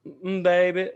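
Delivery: high, warm Southern auntie voice; Southern accent. Retold or imitated. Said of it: "I'm not really gonna do an impression".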